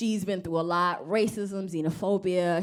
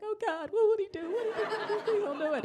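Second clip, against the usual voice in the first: mock panic; 3 dB quieter than usual. Retold panicked pleading thought.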